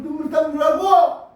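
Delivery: loud, rising command; preacher shouting at the congregation to weep; urgent shout. Real, not acted. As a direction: demand it from the pulpit.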